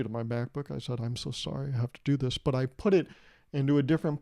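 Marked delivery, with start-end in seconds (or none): 1.0-2.4 hushed, much softer apology to a laptop. Retold or imitated. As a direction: softly say sorry as if to a pet. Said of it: "I kind of almost whispered softly".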